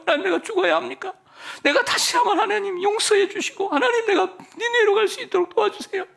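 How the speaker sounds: high, weeping plea to God; tearful repentance. Acted. Jonah begging God for forgiveness, high-pitched weeping plea. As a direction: cry it out like a broken sinner begging forgiveness. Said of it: "정말 눈물 콧물 흘리면서".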